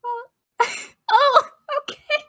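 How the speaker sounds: high, teary little gasp of words; moved almost to tears; overwhelmed and touched; choked up. Real, not acted. Moved by the gesture.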